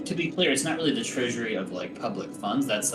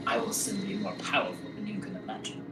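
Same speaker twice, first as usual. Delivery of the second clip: put-on high, cackling old hag voice; a villainous crone gloating; 10 semitones higher, 4 dB quieter than usual. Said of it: "You hear a cackle, and she says".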